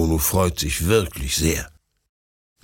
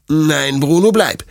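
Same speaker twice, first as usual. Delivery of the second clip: firm, louder order to the dog; stern command; 7 semitones higher, 5 dB louder than usual. A narrator's reading. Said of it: "sagt Detlef streng". (streng und bestimmt)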